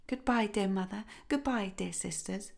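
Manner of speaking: a quiet, voiced farewell, not a true whisper. A narrator's reading. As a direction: say goodbye under the breath so no one wakes. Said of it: "she whispered".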